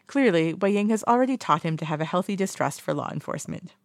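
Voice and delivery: laugh, then read it again. Real, not acted. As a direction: restart through a small laugh.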